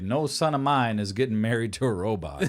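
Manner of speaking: a hint of a stern boomer father; boomer dad. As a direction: play it as a stern old-school dad. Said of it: "I'm gonna be on some boomer shit".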